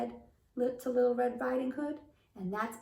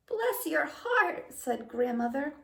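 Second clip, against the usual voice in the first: put-on high, slow sweet old grandmother; a kindly granny welcoming in; grandma voice; 6 semitones higher than usual.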